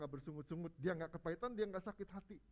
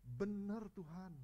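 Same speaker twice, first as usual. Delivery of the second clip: slow, humble "Benar Tuhan"; humble assent; 5 semitones higher, much slower than usual. Acted. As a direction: yield gently as the woman before Jesus. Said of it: "kata perempuan itu".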